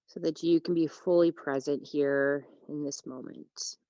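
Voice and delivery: unhurried yoga teacher with long pauses; calm, spacious meditation delivery; guided relaxation. Real, not acted. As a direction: guide them into rest, phrase by phrase. Leads a breathing meditation.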